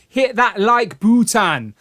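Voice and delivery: slow, drawn-out Jamaican lilt; loosely imitated Jamaican accent, stretched words; mock Jamaican accent. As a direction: put on a playful Jamaican accent. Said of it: "I don't know why we've turned Jamaican".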